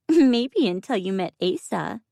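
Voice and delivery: high cooing squeak. A narrator's reading. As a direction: coo it sweetly and high. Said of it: "she cooed".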